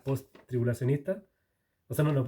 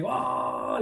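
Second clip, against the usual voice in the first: mock war cry; 8 semitones higher than usual. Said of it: "lanzan un grito".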